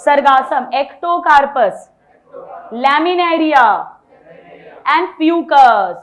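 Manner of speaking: very slow, syllable by syllable: "Ectocarpus", "Laminaria", "Fucus"; slow recitation. Shown as a demonstration. Teacher drills algae names, reciting slowly. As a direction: spell out each name slowly for students to copy. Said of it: "बोलिए".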